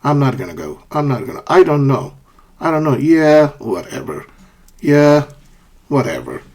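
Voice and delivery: indifferent, noncommittal brush-off; uninterested. Shown as a demonstration. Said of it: "or you're not interested in something".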